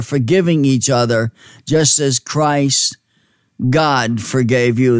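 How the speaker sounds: measured, deliberate Bible reading; scripture reading. Acted. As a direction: reverent reading of Ephesians. Reads scripture aloud.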